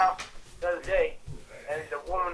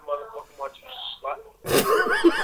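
laughing shouted insult; 3 semitones lower, 4 dB louder, much slower than usual. Real, not acted. Man taunting the fired worker, shouted laughing insult. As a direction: fling the word out with a cackle.

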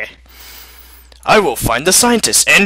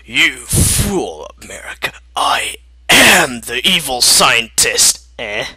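sinister villain; 5 semitones lower, slower than usual. Acted. Canada revealing himself as the villain, low and menacing. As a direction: menace him slowly. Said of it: "Canada laughed maniacally".

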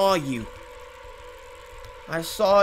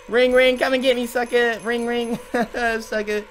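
taunting. Real, not acted. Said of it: "I'm taunting this guy".

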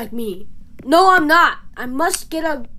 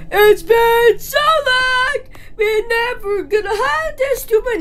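excited; 6 semitones higher than usual. Acted. Greeting reunited friends.

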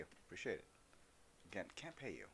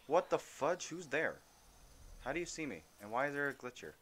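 higher, louder startled questions; 7 semitones higher, 6 dB louder than usual. Real, not acted. Gamer startled by a glitching stranger, higher and loud. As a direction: jump at the sudden voice.

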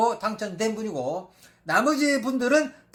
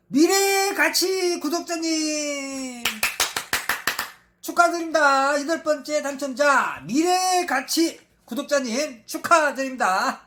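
hyped giveaway announcement; 2 semitones higher, slower than usual. Real, not acted. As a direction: stretch out the name like a game-show host. Announcing winner.

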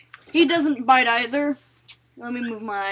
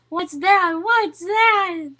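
higher, rising excitement to a pet; excited pet talk; 5 semitones higher, 4 dB louder, much slower than usual. Real, not acted. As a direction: get the pet worked up, higher each time. Playfully exciting the pet ferret.

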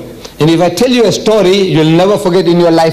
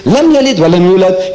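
Quran recitation; much faster than usual. Acted. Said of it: "he doesn't talk like this".

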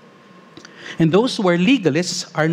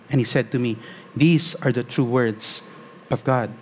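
scripture reading; 2 semitones higher than usual. Acted. Reads Revelation nineteen aloud.

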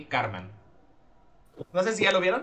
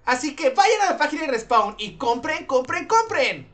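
hyped fairground barker; 6 semitones higher than usual. Pretend. Urging viewers to buy.

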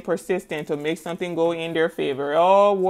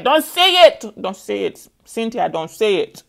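mock warning; 4 dB louder than usual. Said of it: "Let's not say that".

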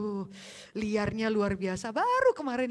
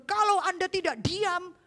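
stern threat; 8 semitones higher, 4 dB louder than usual. Retold or imitated. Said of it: "saya sendiri lihat hamba Tuhan".

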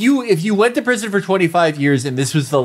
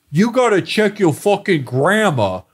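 lightly voiced scolding tough guy; Stallone; 3 semitones higher than usual. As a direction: tell them off in a movie tough-guy impression. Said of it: "And Stallone goes".

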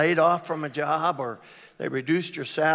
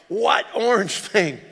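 puzzled call; 5 semitones higher, 8 dB louder, slower than usual. Retold or imitated. Husband answers from under mower.

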